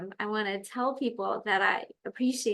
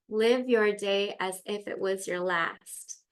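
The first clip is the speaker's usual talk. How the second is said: motto. Retold or imitated. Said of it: "I've had this thought in my brain".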